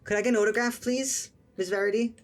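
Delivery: put-on a kid begging for an autograph; eager boy voice.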